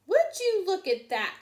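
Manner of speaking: high, loud amazed question; exclaiming. A narrator's reading. Gwen exclaims from the restroom door. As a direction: marvel out loud. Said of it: "she exclaimed".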